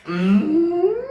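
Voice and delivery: long high-pitched "mm", sliding up; rising hum. Real, not acted. Reacting to a comment just read out, long rising hum.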